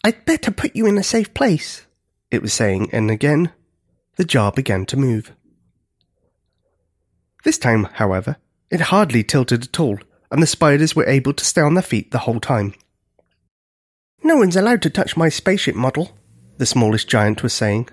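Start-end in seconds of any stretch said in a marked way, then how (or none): 0.0-1.9 put-on young giant. A narrator's reading. Smallest giant caring for spiders. 14.2-16.2 put-on young giant. A narrator's reading. Smallest giant, a child, chatting.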